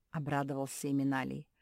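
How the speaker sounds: plain reading voice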